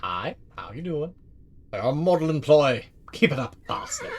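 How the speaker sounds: imitating the boss in a shaky French accent; French accent slipping to German. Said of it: "His accent is slowly slipping into German".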